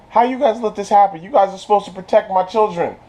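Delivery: retold scolding with a touch of exasperation; indignant reproach. King scolding the guards over his children, mock indignation. Acts out the upset king's reproach.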